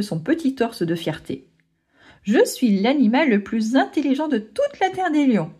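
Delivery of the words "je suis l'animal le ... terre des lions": proud exclamation. Acted. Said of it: "s'exclame-t-il".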